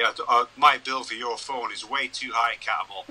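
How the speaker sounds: light Scottish accent, retold; a hint of a Scottish jockey. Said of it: "in that Scottish accent of his".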